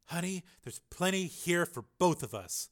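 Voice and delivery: high-pitched put-on reporter voice; mild shout. A narrator's reading. Reporter answering her rival, mild shout. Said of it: "shouted Linda".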